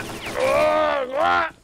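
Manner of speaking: high, loud grossed-out ugh then yelp; disgusted groan. Real, not acted. Streamer shrieks in disgust at food on screen. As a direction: recoil from something gross.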